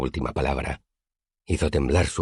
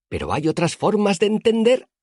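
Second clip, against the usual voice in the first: put-on much higher, loud childlike cry; gleeful shout; 4 dB louder than usual. A narrator's reading. Elodin shouting at the sky, gleeful high cry. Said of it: "gritó riendo como un niño pequeño".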